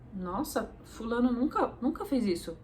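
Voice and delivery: amazed, laughing through it; laughing amazement. Retold or imitated. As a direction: marvel at it with a laugh. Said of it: "E você fala". (espanto rindo)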